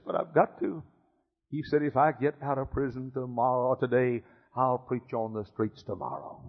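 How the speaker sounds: hushed, soft telling of a sad story; soft tender storytelling. A narrator's reading. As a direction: draw them in quietly with a heartbreaking tale. Tender story told softly.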